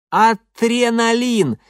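loud, high, very slow gurgle; gurgling. A narrator's reading. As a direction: gurgle it through a mouthful of teeth. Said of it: "полон рот этих битых зубов".

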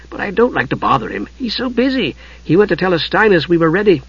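high-pitched, chattering little character; chatty kender Tas. A narrator's reading. Tas chatting to Usha at her door, high and chatty. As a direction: prattle on in a high voice.

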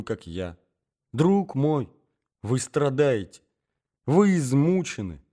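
mildly pained, tender appeal; lingering over the confession, with understated hurt; painfully soft. Acted. Scheming mother soothes the angry suitor, painfully soft. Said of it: "Голос Марьи Александровны был болезненно мягкий".

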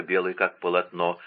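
ordinary delivery, nothing marked

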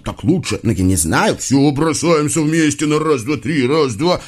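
squabbling devils, hissing back and forth; testy conspiratorial exchange; hissed bickering. A narrator's reading. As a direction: argue over sides under your breath. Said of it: "шипят друг на дружку".

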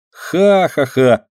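drawn-out ha-ha-ha joining the fun; slow laugh. A narrator's reading. Myshka joining mother's laughter, slow ha-ha-ha. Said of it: "подхватывает Мышка".

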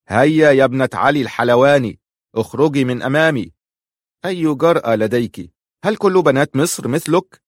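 sharp impatience, shoo her away; impatient. A narrator's reading. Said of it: "قال في عدم صبر". (بنفاد صبر وبصوت أعلى)

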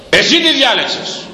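mother-in-law blaming her son's choice, high mock voice; mock scolding mother. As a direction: play the nagging mother-in-law.

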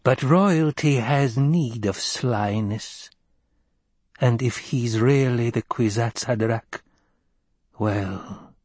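slow wheezy crone voice; a knowing old witch, drawn out; breathless old person. Acted. Crone voice continues.

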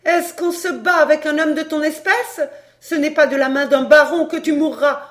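loud, high-pitched, scornful fury; outraged tirade. A narrator's reading. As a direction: rage at the lover who duped you. Scorned mistress rages at her lover. (tirade furieuse de femme trahie)

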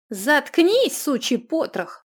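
high loud insult; angry shout. Acted. Runika yells at the giggling dwarf in fury. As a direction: hurl the curse at him.

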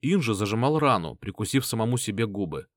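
plain reading voice

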